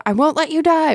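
very high, loud spirit cry; seething shrieking spirit. Acted. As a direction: shriek it like a clinging ghost. Spirit voiced in read passage.

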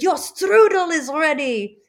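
imitating a German accent, loud and high. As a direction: call it out slowly in a hammed-up German accent. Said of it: "Try calling up in a German accent".

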